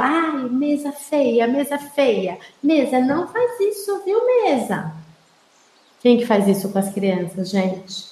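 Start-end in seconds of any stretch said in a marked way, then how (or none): 0.0-4.9 put-on scolding the table to a child. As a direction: playfully scold the table to soothe a crying kid. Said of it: "Aí a gente fala".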